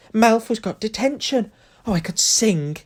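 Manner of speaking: high, loud and slow with delight; gleeful. A narrator's reading. Hermione to Harry about Malfoy's detention, gleeful and high. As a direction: crow it out, bursting with joy.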